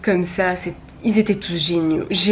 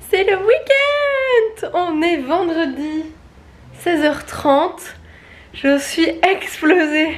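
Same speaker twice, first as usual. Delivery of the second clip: excited; 8 semitones higher, slower than usual. Real, not acted. Celebrating that Friday has arrived.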